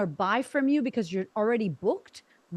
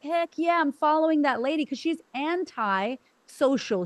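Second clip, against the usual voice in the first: excited fan; 4 semitones higher, slower than usual. Retold or imitated. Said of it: "how many of you would be like".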